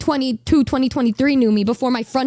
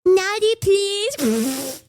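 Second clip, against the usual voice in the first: bashful, higher coy "naughty"; coy request; 6 semitones higher, much slower than usual. Retold or imitated. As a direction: ask for it shyly, half-giggling. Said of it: "And then I said".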